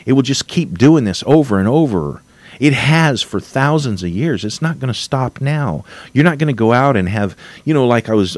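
getting worked up about the state; wound up. Real, not acted. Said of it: "I'm getting a little wound up".

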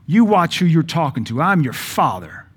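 dictator snap. Retold or imitated. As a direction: play a domineering father cutting his child off. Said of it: "if you snap like some dictator".

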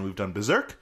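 stretched presenter emphasis; podcast voice. Acted. Host explaining the show choice, mannered podcast voice. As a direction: punch the phrase ends like a host. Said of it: "why I'm doing it like that".

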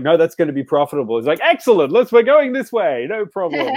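loud, high, rushing company-man impression; eager corporate enthusiasm. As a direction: jump gleefully on a profitable idea. Acting out corporate drone seizing profit.

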